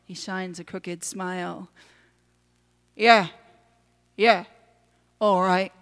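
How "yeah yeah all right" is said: short, grudging little grumble; grumbling. A narrator's reading. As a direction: grumble a reluctant yes. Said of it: "the tiny man grumbles".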